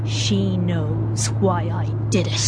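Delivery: slow, breathy whispered admission; hushed whisper. Acted. Sally whispers her unrepentant confession. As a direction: whisper it like a guilty secret.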